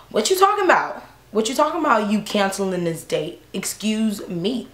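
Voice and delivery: retold indignant outburst, slowing on the last words; indignant confrontation. Woman confronting her date for cancelling, indignant.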